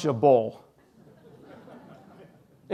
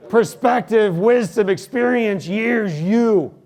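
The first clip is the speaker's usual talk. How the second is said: each word hit high and much louder; fired up, pounding each word home; emphatic loud list; 7 semitones higher, 7 dB louder, slower than usual. Real, not acted. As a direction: punch every word like a sermon climax. Preacher building emphatic list.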